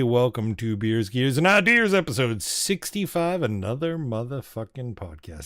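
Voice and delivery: slow upbeat announcer intro; podcast host intro. Acted.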